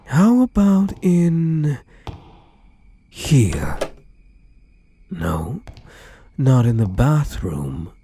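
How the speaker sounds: slow, sing-song hide-and-seek taunt; teasing search. Acted. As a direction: draw it out like a game of hide and seek. Playful hide-and-seek search for captive.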